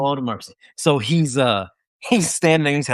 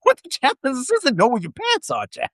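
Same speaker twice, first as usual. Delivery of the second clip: much higher, incredulous yelp; shocked outburst; 8 semitones higher than usual. Retold or imitated. Soldier hearing the chaplain ask for his pants, high and incredulous. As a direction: blurt it out in disbelief.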